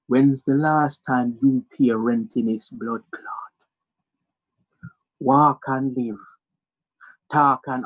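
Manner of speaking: slow, low Jamaican telling-off; measured mock-stern Jamaican mum; Jamaican mother. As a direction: put your son down slowly in patois. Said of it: "She looks me so sweetly".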